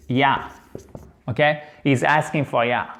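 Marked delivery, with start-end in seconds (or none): 1.8-2.9 "ya" in place of a full "you"; colloquial reduced you. Shown as a demonstration. Teacher shows spoken English, "ya" said as yuh. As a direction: relax "you" into a casual "ya". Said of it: "Ça, c'est typique de la langue parlée".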